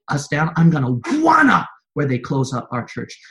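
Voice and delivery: loud, high, driving sermon voice; fiery preaching. Acted. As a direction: preach it hard to the church, rising. Preacher rises to full force.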